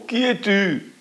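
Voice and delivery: high, far-off echoed question. A narrator's reading. The echo repeating the girl's question from afar. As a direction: throw it back like a distant echo. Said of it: "l'écho, évidemment, répond".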